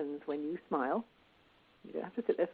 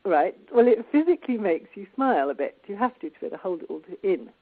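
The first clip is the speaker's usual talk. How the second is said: pen in teeth; 5 dB louder than usual. Real, not acted. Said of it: "So I'm holding this pen between my teeth".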